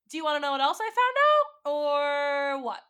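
loud, high, fast angry confrontation; sarcastic yell, cornering him; furious shout. Retold or imitated. Confronting cheating partner, furious.

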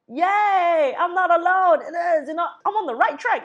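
high, loud, laughing cheer; delighted squeal through laughter; giddy yay. Retold or imitated. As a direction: burst out like you've just been validated. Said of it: "And I'm like".

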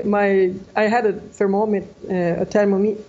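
translating in head. Real, not acted. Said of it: "I don't know the word in English".

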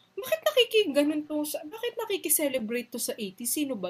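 high-pitched puzzled start, then settling; mildly baffled retold question; puzzled wondering. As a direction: re-enact your own confusion, starting high. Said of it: "nagtataka ko".

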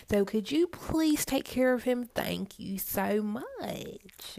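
a hint of a falsely sweet manager; bossy manager. Boss asking Sheila to wait on a table, lightly sugary.

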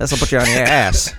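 slightly put-on tough warning; tough grown-up. Adult warning a kid about a stiff drink, lightly mock tough. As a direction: lightly play a seasoned drinker.

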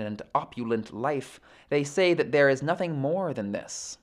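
measured, formal read-aloud of sacred text; composed audiobook-style recitation; scripture reading. Acted. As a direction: read the commentary out evenly, phrase by phrase. Reads numbered verses aloud.

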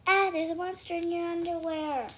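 loud, high cry of alarm; alarmed warning. A narrator's reading. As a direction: raise the alarm loudly. Shouting warnings to siblings.

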